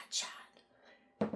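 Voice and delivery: whispering the word to herself before saying it; whispered practice. Real, not acted. Rehearsing the product name in a whisper to herself. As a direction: try the name under her breath.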